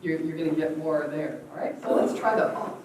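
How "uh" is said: short "uh" from the gut; quick belly burst; punched-stomach grunt. Shown as a demonstration. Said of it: "Pretend you're getting hit".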